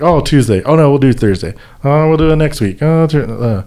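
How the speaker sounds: lightly exasperated retelling; mock flustered rescheduling. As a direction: imitate being flustered by yet another change. Acting out repeated rescheduling.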